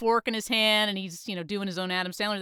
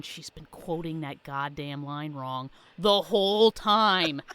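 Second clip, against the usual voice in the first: mock God; 4 semitones lower than usual. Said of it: "like God's up there going".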